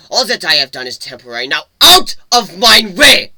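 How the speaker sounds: loud, high, furious ranting; angry tirade. Acted. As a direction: lash out at the elder to get past. Raging at the village elder.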